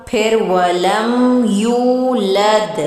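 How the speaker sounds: slow, the د of یلد and یولد clearly stopped; slow recitation demo. Shown as a demonstration. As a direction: drag each syllable and land on the د. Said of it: "لد کی آواز نکلے گی".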